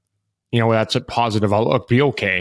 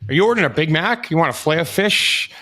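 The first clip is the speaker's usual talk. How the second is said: mock sarcastic questions; 6 semitones higher than usual. Mocking players' stick taps.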